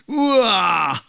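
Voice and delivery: high, loud wow; imitating a wonderstruck child; acted child's amazement. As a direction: marvel like an impressed little boy. Small son amazed at father.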